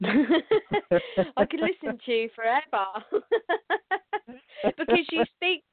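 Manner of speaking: laughing through an admiring compliment; laughing praise. Real, not acted. Host laughing while praising Ron's energy, delighted. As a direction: gush and giggle at once.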